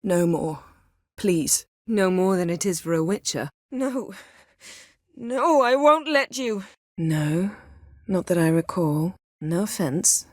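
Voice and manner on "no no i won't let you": firm refusal. Acted.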